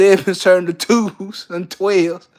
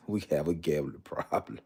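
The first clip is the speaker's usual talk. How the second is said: quiet setup; 10 semitones lower, 13 dB quieter than usual. Shown as a demonstration. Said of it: "Ladies and gentlemen".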